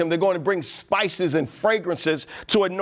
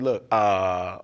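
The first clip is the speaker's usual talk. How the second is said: lower, slow, nervous report; sheepish guards; 6 semitones lower, slower than usual. Retold or imitated. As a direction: confess it like scared guards. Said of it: "They like".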